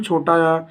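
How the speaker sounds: छोटा आ said easily, without force on आ; छोटा आ, no push on the vowel; short, easy vowel. Shown as a demonstration. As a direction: say छोटा आ with a brief, relaxed आ. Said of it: "बहुत आराम से बोले".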